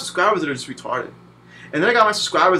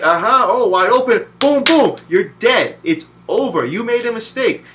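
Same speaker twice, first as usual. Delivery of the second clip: lightly voiced gloating AI, a bit louder; voicing the game AI; 4 semitones higher, 3 dB louder than usual. The boss AI punishes the player's mistake, gloating. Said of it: "The A I's like".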